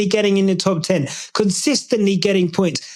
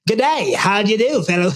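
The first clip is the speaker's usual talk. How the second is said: put-on a light Australian accent. Imitating an Aussie greeting the kids in an Australian accent. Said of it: "in an Australian accent".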